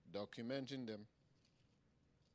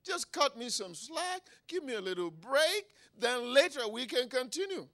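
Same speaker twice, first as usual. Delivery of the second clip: high, raised wheedling appeal; bargaining plea; 10 semitones higher, 6 dB louder than usual. Acted. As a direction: beg for a small favour. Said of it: "oh, then he said".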